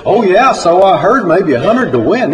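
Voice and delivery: high, lively assurance; eager tall tale. Retold or imitated. Narrator fools his friend about hog racing winnings, eager. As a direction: sell the story with a high, loud lift.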